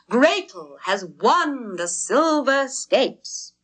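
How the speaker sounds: slow, high proud announcement; triumphant. A narrator's reading. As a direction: proclaim the victory.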